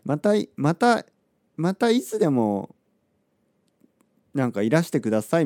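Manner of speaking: a bright, polite shop-clerk farewell; the clerk's cheerful, polite send-off; friendly clerk farewell. Retold or imitated. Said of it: "そんな言い方じゃないけど".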